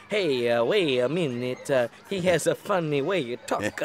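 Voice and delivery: halting, lightly voiced classmate impression; Junior. Boy making the coach laugh, halting mock impression. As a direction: hesitate and drag the words in mild mimicry. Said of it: "Do a Junior".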